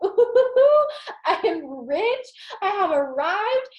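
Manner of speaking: high, thrilled squeal of fake riches; playful mock excitement; mock hyped. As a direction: gloat like you just got rich. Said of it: "I was hyped".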